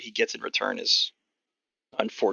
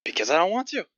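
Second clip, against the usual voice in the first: higher-pitched gruff goblin voice; gruff old goblin; 8 semitones higher than usual. Acted. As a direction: play a crusty old goblin selling tickets. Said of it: "Sort of this gruff old goblin".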